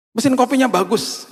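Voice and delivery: lightly voiced delight at a shiny machine; impressed exclaim. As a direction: gush over the coffee machine. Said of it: "saya bilang gitu".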